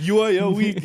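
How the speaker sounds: high, loud mock disbelief; imitated freaking out. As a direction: exclaim it like a panicking director. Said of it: "other directors freaking out about that".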